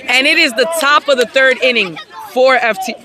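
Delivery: talking through hiccups. Real, not acted. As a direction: speak while fighting hiccups. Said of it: "Sorry, I have the hiccups".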